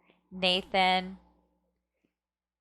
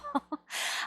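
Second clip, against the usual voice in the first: embarrassed laugh; 13 semitones higher, 7 dB quieter than usual. Real, not acted. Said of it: "I'm so sorry about that".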